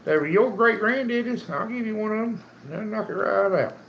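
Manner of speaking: high, lively calling out. Real, not acted. Calling out to a viewer.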